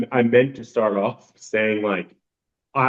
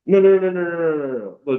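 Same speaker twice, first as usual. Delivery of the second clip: rapid, insistent no's, higher; emphatic no; 6 semitones higher than usual. Retold or imitated. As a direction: shut the idea down, fast and firm. Emphatic denial of common belief.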